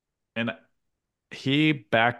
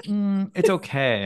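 grudging mock approval; 10 semitones higher, slower than usual. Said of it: "yeah, like".

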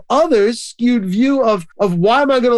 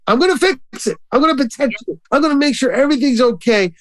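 eager parent; 4 semitones higher, faster than usual. Retold or imitated. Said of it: "the desire to help from the parent".

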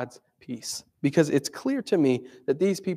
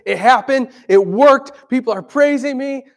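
raised, louder gleeful voice; mock delighted; 8 semitones higher, 9 dB louder than usual. Preacher voicing imagined pleased Jesus, mock gleeful. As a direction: act out smug delight at the praise.

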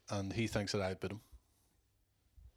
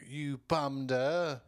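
slow quoted line; 3 semitones higher, much slower than usual. Retold or imitated. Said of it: "or, like".

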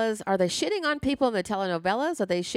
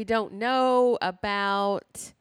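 slow stunned question; much slower than usual. Real, not acted. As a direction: ask slowly, in disbelief.

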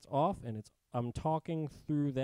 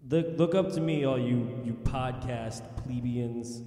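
snobby; slower than usual. Pretend. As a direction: lord it over the plebs. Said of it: "Like I'm better than everyone".

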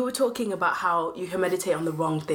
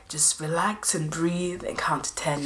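soothing whisper; slower than usual. Retold or imitated. Quoting people calming someone.

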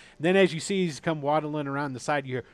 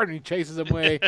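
usual speaking voice

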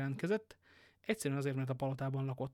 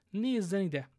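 high, loud call to look; urgent exclamation; 6 semitones higher, 7 dB louder, much slower than usual. A narrator's reading. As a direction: demand attention urgently. Shocked duke shows the cut ribbon.

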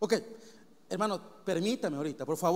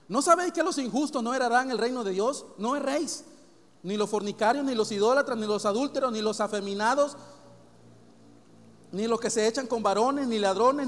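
scripture reading; 4 dB louder than usual. Real, not acted. Reads scripture aloud.

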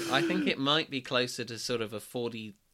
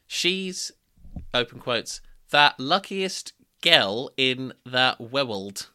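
stifled giggles; 7 dB louder, much slower than usual. Real, not acted. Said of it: "I'm trying not to la-, don't laugh".

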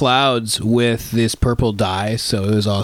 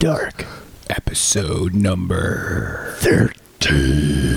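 whisper; 6 semitones lower, much slower than usual. Acted. Spooky show intro.

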